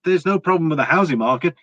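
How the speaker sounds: high, breezy mock officials' voice brushing off the risk; hammed-up dismissive reassurance. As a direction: lightly parody the Fed saying all is fine. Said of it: "they said the same thing about the".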